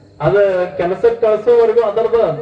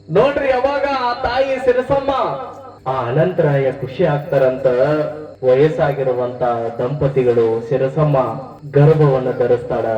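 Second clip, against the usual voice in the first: devotional storytelling. Acted. Preacher telling listeners of Sirasamma's pregnancy, devotional storytelling. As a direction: tell a sacred legend in drawn-out, chanting phrases. Narrates the saint's birth legend.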